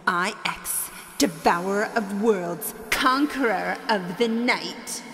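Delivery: echoing evil villain speech; grand dark lord monologue; booming echoing villain monologue. Acted. Villain's evil monologue, named line 58.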